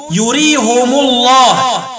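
"يريهم الله" as yurihumu-llah; slow link, u after both h and m in "يريهم"; damm ha and mim. Shown as a demonstration. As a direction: recite "يريهم الله" with -humu. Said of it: "بضم الهاء والميم وصلا".

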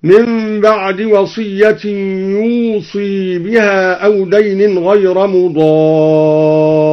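يوصي with kasra on ص, slow and chanted; kasra on ṣād. Shown as a demonstration. Teacher repeating the second place, slow melodic recitation. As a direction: sing out يوصي with the ص as i. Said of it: "في الموضعين".

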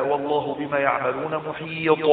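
softly recited, محيط ending on a bounced ط; qalqalah at pause. Shown as a demonstration. Teacher giving a verse example, qalqalah on محيط. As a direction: recite quietly and rebound the ط of محيط. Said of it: "فيحدث قلقلة عند القراءة".

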